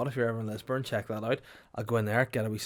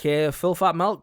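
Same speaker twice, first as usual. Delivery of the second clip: loud, higher, slow brusque cafe worker; cafe lady; 6 semitones higher, 9 dB louder, slower than usual. Retold or imitated. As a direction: drag it out like a gruff cafe lady. Cafe worker voiced in story.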